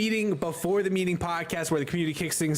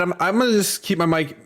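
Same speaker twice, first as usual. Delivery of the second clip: talking while crunching food; chewing something crunchy between words; 2 semitones higher than usual. Real, not acted. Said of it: "you hear me crunching".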